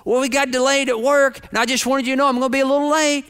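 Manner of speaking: high, lilting, cheery phone voice. Retold or imitated. Wife telling husband she is delayed, cheery. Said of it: "contrast between my wife's tone".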